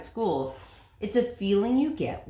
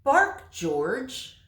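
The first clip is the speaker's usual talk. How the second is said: mother calling out, higher and louder; firm mother's command; 7 semitones higher, 5 dB louder than usual. Acted. Mother orders her puppy, firm and loud. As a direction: tell the puppy firmly to bark.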